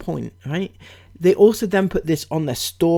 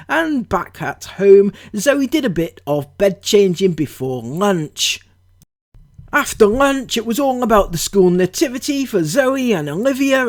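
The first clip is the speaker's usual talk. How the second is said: higher, louder sing-song reading of Ben's caption; mock cheerful caption read; 3 semitones higher, 4 dB louder than usual. Vlogger mocking the dad's Instagram caption, hammed-up cheerful. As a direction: send up his chirpy vlog voice, bright and bouncy. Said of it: "So Ben writes on the Instagram".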